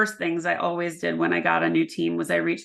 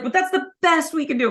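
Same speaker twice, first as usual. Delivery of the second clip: much higher, mock-reluctant HR voice; mock HR whine; 10 semitones higher, 3 dB louder than usual. Leader imitates HR giving the final raise, mock whiny. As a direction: play HR grudgingly conceding the best offer.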